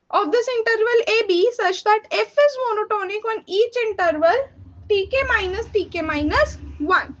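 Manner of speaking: slow, careful read-out of a textbook definition; reading a definition aloud. Acted. Teacher reading the definition slowly to her students. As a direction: dictate it slowly, word by word, for notes.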